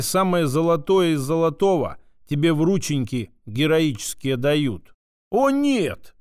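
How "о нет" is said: high, hammed-up gasp of dismay; mock shock. A narrator's reading. Woman mocks the news with fake shock, high. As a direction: play fake horror, pitched high up. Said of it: "приняла потрясённый вид".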